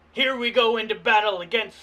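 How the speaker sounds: battle catchphrase. Acted. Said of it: "I, Cordless".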